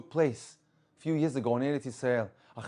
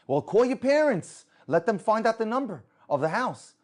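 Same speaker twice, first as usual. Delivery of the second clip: loud, high retort; retold insistent instruction, high and loud; exasperated urging; 9 semitones higher, 8 dB louder than usual. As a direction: overrule the objection forcefully. Driver overrules the man's objection.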